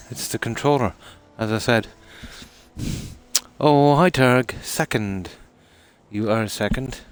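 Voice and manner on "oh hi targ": excited greeting. Real, not acted. Greets arriving player loudly.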